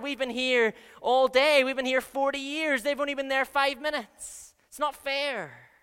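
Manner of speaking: a church member ranting that it's not fair; aggrieved rant. Retold or imitated. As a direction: build a wounded, indignant protest. Voicing a resentful churchgoer.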